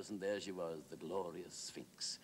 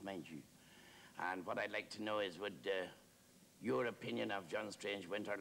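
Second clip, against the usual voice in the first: lightly voiced eager, rambling questioner; a touch of fawning earnestness; deferential chatty admirer; 4 semitones higher than usual. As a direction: work up politely to a big question, with hesitations. Admirer presses Wilde about novelist.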